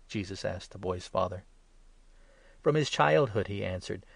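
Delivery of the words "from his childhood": high, loud pained reply; distressed answer. A narrator's reading. Father telling Jesus how long, high and anguished. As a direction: blurt out the long sorrow.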